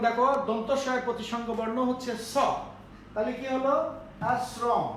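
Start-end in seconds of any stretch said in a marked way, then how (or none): 4.3-4.8 আশ্রম as "asrom", with a thin "s"; correct s-sound. Shown as a demonstration. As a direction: say আশ্রম with "s" in place of "sh". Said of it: "আমরা এটাকে বলি আশ্রম".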